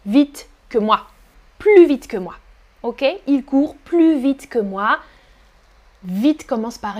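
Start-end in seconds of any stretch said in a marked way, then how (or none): 1.6-2.4 "Plus vite" said plu vite; loud, clear model of "Plus" as plu; silent final S. Shown as a demonstration. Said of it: "on ne prononce pas le S". 3.8-5.0 "plus vite" said plu vite; no S in "plus" before the consonant; teacher models "plus" as plu in the sentence; silent final S. Shown as a demonstration. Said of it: "on ne prononce pas le S".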